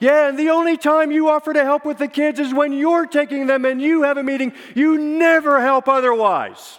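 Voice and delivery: very high, loud, exasperated, furious yelling. Retelling a kitchen argument, the wife's answer: retelling a wife's yell. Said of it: "she yells from the other side".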